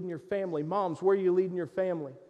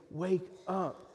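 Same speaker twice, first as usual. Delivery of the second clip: softer, slow, gentle wake up; Jesus gently waking the listener; gentle wake-up call; 7 dB quieter than usual. Acted. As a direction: wake them tenderly, not harshly. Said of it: "he's not gonna do it harshly".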